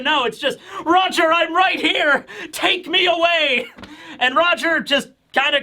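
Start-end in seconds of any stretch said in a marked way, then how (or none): 0.8-3.7 high, hammed-up lovesick plea; mock pleading. Gloriosa throwing herself at Roger, high mock plea. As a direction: beg to be carried off.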